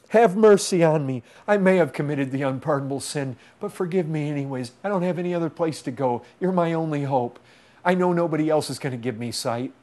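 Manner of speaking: acted plea, easing down from a shout; insistent mock appeal; pleading. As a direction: beg as if there's nobody else. Acted blind man pleading for mercy.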